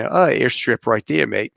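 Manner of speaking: light mock New Zealand accent; a hint of imitated Kiwi pilot. Pilot friend points out the airstrip, lightly mocked New Zealand accent.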